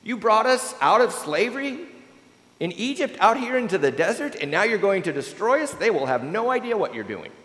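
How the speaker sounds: high, pleading voice that fades back toward normal; imploring Moses. A narrator's reading. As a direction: beg God to change his mind. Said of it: "he implores God".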